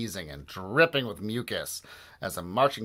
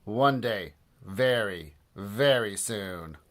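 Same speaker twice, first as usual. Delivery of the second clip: sinister vow; slower than usual. Acted. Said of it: "Mister Krupp vowed".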